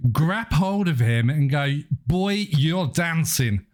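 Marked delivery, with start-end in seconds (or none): 2.1-3.7 slow, half-convincing Kentucky drawl; slowed-down, badly faked Kentucky accent. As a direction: attempt a Kentucky accent and don't quite pull it off. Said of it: "I put on my best Kentucky accent".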